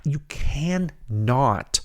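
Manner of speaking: "cannot" drawn right out into two separate words; emphatic cannot. Real, not acted. Host forbidding a bad comparison, "cannot" slow and emphatic. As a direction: stretch "cannot" very slowly, splitting can and not. Emphatic correction of listeners' mistake.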